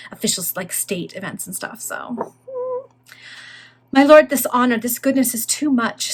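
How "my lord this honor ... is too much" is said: deep emotion. A narrator's reading. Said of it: "in a tone of deep emotion".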